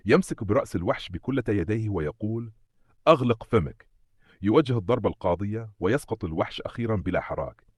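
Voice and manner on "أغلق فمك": higher, forceful narrated order; angry command. A narrator's reading. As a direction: order the monster to be silent, firmly. Hero orders monster while gripping it.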